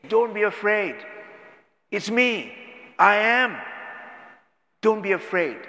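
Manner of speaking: high, loud commanding reassurance; voice of Jesus. Acted. Preacher voices Jesus calling to frightened disciples, loud and high. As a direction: call it over the storm: don't be afraid.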